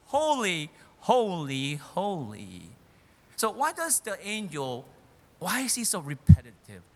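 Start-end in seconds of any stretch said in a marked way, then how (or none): 0.0-2.7 mildly raised proclamation, stepping down in pitch; imitated thundering voice. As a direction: imitate an angel's loud cry, falling on each word. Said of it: "speaking with a tremendously thundering, loud voice".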